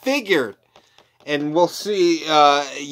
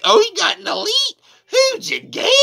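much higher, strained mock lady voice; checkout lady; 4 dB louder than usual. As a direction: squeak it out like the receipt checker. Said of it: "she's like".

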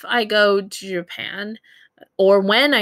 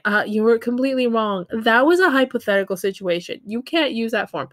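mock correction; 3 semitones higher, faster than usual. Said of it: "no one is going to stop you and say".

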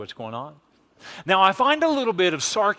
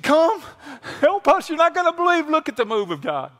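much higher excited call for help; 12 semitones higher than usual. Retold or imitated. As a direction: call the partners over, thrilled. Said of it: "He said".

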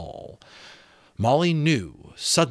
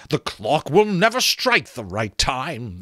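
talking skull; 5 semitones higher, 5 dB louder than usual. Acted. Skull character voice.

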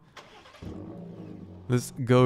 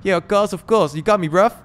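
high, loud put-on voice for the friend; voicing Jason; 8 semitones higher, 7 dB louder than usual. Player voices Jason welcoming him into the fast car, high put-on voice. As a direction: play the hyped driver bragging about his car.

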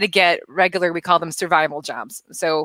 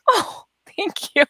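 flattered thanks; 12 semitones higher, slower than usual. Retold or imitated. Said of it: "And I'm like".

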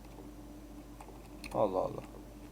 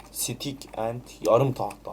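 slow mocking reread; 3 semitones lower, slower than usual. Shown as a demonstration. Gamer rereads his own clumsy line, slowly mocking. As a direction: slowly repeat the odd phrase, mocking it. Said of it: "O nasıl bir cümle la?".

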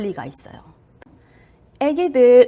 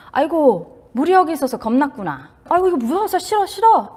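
empathetic mother; 4 semitones higher than usual. Retold or imitated. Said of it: "첫 마디는 공감입니다".

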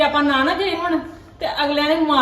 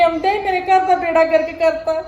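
crying lament; 2 semitones higher than usual. Acted. Mother laments daughter thrown out.

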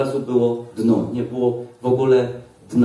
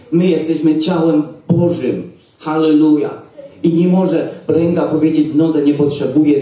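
preaching; 2 semitones higher than usual. Acted. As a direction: preach each phrase with weight. Preaching about the church. (kaznodziejski, powolny i dobitny ton)

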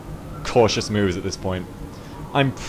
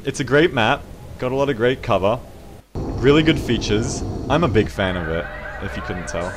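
deadpan fake praise; sarcastic. Real, not acted. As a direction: praise it mockingly. Praising hated map ironically.

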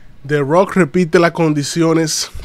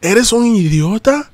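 higher, taunting question; mock Roman Reigns; 5 semitones higher than usual. Streamer voices Roman taunting Cody, higher and mocking. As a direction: sneer at him as Roman, pitch up. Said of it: "Roman Reigns le dice a Cody".

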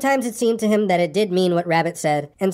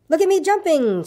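much higher, a tiny excited squeak; 10 semitones higher than usual. A narrator's reading. Baby Roo showing off his jumps to Pooh, high squeak. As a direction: squeak it out like a little joey. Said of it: "squeaked Roo".

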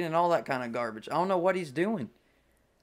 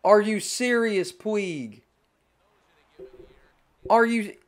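disbelief; 5 semitones higher, 4 dB louder, slower than usual. Real, not acted. Disbelief at teammate.

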